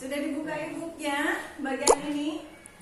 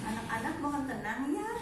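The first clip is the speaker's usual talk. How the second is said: "mohon tenang ya" softer, with a question rise on "ya"; quiet rising tune on "ya", not a command; 4 dB quieter than usual. Shown as a demonstration. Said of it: "Itu seperti kalimat tanya".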